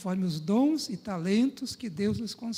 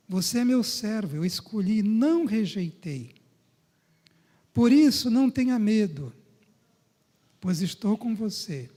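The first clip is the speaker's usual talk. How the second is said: loud proclamation; 7 dB louder than usual. Acted. Pastor proclaims the promise.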